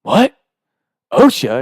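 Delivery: confused surprise. Retold or imitated. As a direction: act baffled by the word "osha". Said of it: "Sean's like".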